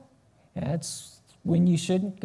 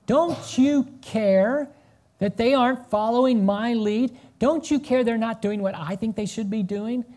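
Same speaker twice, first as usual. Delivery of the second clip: irritated complaint; 4 semitones higher than usual. Retold or imitated. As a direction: drag out don't you care. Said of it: "she's irritated at Jesus now".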